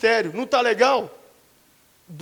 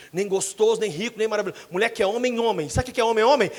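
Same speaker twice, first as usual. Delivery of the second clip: ordinary talk, nothing marked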